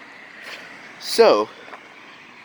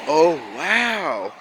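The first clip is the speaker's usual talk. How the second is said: drawn-out fake wow, then a higher question; sarcastic; 3 semitones higher, slower than usual. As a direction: play along with mock amazement. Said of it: "sarcasm, not my biggest strong point".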